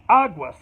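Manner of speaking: aguas said the Spanish way, AH-gwas; Spanish word. Shown as a demonstration. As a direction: say aguas as a Mexican warning. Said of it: "you can say".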